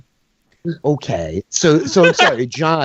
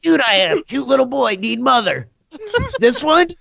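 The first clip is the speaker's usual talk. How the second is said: put-on goblin child voice; 5 semitones higher than usual. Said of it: "He points over at Tanea".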